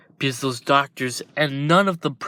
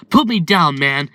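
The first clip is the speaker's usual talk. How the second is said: loud protest; 2 semitones higher, 6 dB louder than usual. Acted. The hero choking in a father's grip, loud protest. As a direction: yell to be let down.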